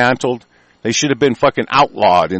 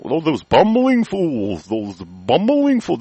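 mocking quote; 4 semitones higher, slower than usual. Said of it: "they act like these are".

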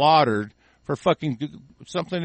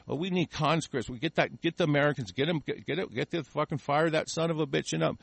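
softer mock scheming aside; mimicked English officials; 8 dB quieter than usual. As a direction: imitate officials plotting among themselves, voice dropped. Voices English demanding American conscripts.

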